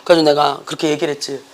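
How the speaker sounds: ordinary talk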